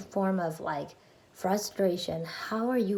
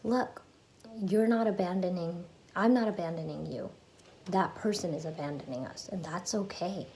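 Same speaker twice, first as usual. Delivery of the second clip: lightly voiced comforting parent; loving parent. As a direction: gently reassure your inner child. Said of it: "bring my loving parent out to talk to myself".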